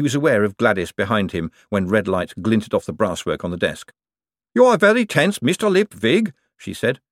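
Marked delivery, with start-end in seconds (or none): 4.5-6.3 high, even golem voice. A narrator's reading. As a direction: speak like a gentle clay golem. Golem Gladys speaks to Moist.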